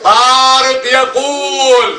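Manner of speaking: slow, drawn-out syllables for the class; slow reading model. Shown as a demonstration. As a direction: model it slowly, word by word. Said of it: "teacher models the reading".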